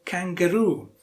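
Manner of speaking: KANGAROO, weight on the final ROO; last-syllable stress. Shown as a demonstration. Teacher confirming the answer, stressed on ROO. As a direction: stretch ROO at the end of kangaroo. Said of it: "yes, the last syllable".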